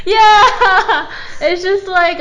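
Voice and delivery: high, loud burst with a laugh; excited laughing agreement. Real, not acted. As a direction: exclaim it through laughter. Delighted agreement on an obvious answer.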